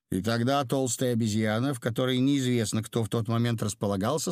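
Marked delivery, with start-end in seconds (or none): none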